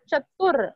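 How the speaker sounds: चतुर ending on a clear "r" after "tu"; sounded "r". Shown as a demonstration. Teacher warning against a common mistake, clear final "r". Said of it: "I am saying र".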